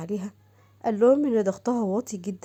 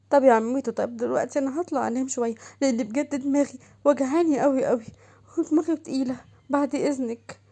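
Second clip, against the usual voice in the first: put-on hurt young wife; 3 semitones higher than usual. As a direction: beg the aunt, close to tears. Shams excuses herself to rest. (صوت زوجة شابة مجروحة تتوسل)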